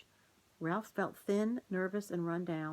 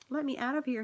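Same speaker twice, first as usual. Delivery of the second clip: high, louder little squeak; mouse squeak; 7 semitones higher, 4 dB louder, faster than usual. A narrator's reading. Caged mouse begging Aunt Jill, a high squeak. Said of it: "heard the mouse squeak".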